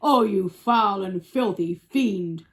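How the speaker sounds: slow, loud elephant outcry; Trunky. Acted. Elephant condemning the crocodile, loud and slow. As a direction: cry out big and drawn-out. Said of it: "cried Trunky".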